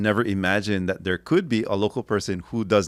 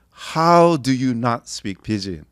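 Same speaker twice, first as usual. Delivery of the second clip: louder, slow incredulous; mock disbelief; 4 semitones higher, 6 dB louder, slower than usual. Asking a Kamehameha friend, slow mock disbelief. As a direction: stretch it out in disbelief. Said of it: "I'm like".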